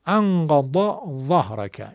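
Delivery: slow and careful, contrasting the two letters; comparison demo. Shown as a demonstration. Teacher repeats the verse for comparison.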